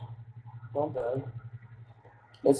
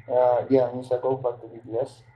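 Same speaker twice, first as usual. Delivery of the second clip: cigarette in mouth. Real, not acted. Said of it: "I have a cigarette in my mouth".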